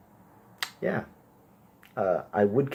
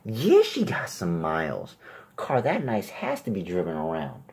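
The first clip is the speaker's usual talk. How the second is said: guy ogling; slower than usual. Retold or imitated. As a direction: nudge your buddy, savoring it.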